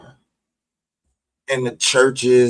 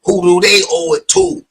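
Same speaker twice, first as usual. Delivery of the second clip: higher and louder, the question pushed up at the end; louder insistent question; 10 semitones higher, 8 dB louder than usual. Real, not acted. Preacher pressing the crowd, louder insistent question. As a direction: demand the answer, climbing. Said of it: "I'ma keep asking your dumb ass".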